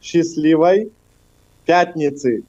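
Счастливой пятницы spelled out slowly, word by word, with a pause between. Shown as a demonstration. Russian guest repeating Счастливой пятницы slowly for the hosts. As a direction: break Счастливой and пятницы apart for a learner. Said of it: "I do it slowly".

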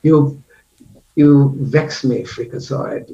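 slow, drawn-out villain line fading to a whisper; Khan impression. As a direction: savor it like a movie villain. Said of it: "Khan in The Wrath of Khan".

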